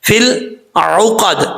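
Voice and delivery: فی العقد slowly with a real ain; correct recitation. Shown as a demonstration. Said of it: "یہ عین ہے". (فی العقد میں عین صاف)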